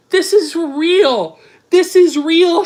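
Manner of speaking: disbelieving yell. Real, not acted. Shouting in disbelief.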